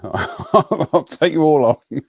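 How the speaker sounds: slow, slurred pub challenge; belligerent drunk. Acted. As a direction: taunt everyone like a drunk. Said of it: "John's gone into drunk belligerent mode".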